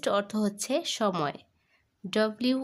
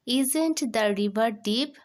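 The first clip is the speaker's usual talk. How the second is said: very slow, a little louder, word by word; slow dictation; 2 semitones higher, 4 dB louder, much slower than usual. Shown as a demonstration. Teacher reads the full answer for pupils, slow and clear. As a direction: read it out slowly for copying. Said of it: "উচ্চারণটা হবে isn't".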